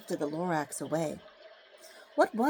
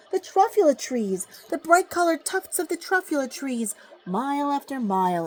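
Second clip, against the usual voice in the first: rising, louder wonder at the trees; awed wonder; 6 semitones higher, 4 dB louder than usual. A narrator's reading. Onceler first seeing the trees, voice rising in awe. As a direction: marvel at something beautiful.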